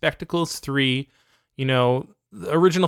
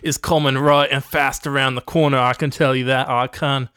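mock Australian accent; 4 dB louder than usual. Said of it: "Went a little cockney there".

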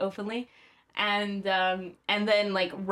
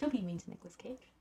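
protective plea; 10 dB quieter than usual. Pretend. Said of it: "wanna protect him and be like".

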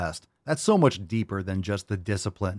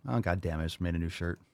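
normal talking voice

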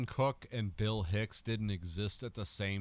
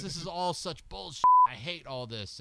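put-on a second go at the Australian accent, higher on the first line; imitating an Australian rocker sneering; 6 semitones higher, 7 dB louder than usual. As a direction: a singer's Australian grumble, trying again. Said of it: "Can't do an Australian accent".

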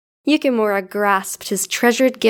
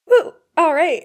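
upbeat cheer; pitched up, happy; excited; 8 semitones higher, 3 dB louder than usual. Real, not acted. Cheering after a bite.

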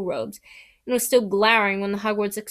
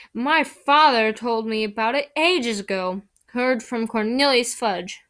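lightly voiced gloating schoolboy; gloating Malfoy voice; 3 dB louder than usual. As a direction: boast with smug superiority. Malfoy gloating about the Ministry.

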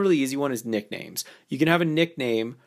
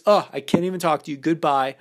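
playful disqualifier. Shown as a demonstration. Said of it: "I bring up this disqualifier piece".

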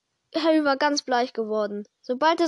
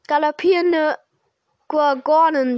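Hagrid exclaiming; 3 dB louder than usual. Acted.

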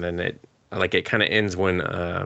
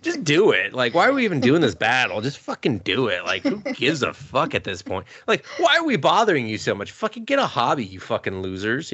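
exasperated rant; 5 semitones higher than usual. Retold or imitated. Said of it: "And I'm just like".

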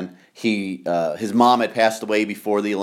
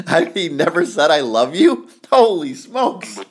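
disbelief; 7 semitones higher, 4 dB louder than usual. Real, not acted. Stunned by father's silence.

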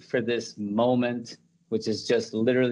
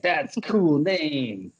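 slow, drawn-out, higher-pitched approval; mock enthusiasm; 5 semitones higher, much slower than usual. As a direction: stretch it out like you're impressed. Retelling his excited first reaction.

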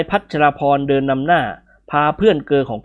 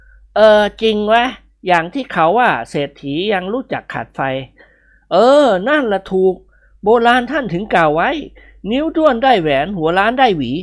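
higher, agreeing banter; character voice; 6 semitones higher, slower than usual. A narrator's reading. Friends bantering about a proverb, higher voice.

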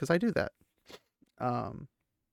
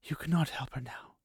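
gently; 2 semitones higher, 6 dB quieter than usual. Acted. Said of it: "Moiraine said gently".

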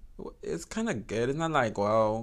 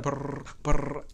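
fart noise. Retold or imitated. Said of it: "I always keep farting, like".

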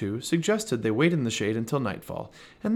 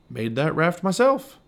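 slow, pleased boast, a bit louder; proud; 5 semitones higher, 4 dB louder, slower than usual. Acted. Merle boasting to Pearl about his raft, proudly. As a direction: show off your handiwork. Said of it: "Merle said proudly".

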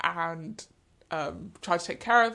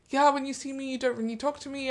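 imitated German accent, higher pitch; Mary Lou; 6 semitones higher than usual. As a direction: mimic her German accent in a raised pitch. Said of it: "That was actually a very good German accent".

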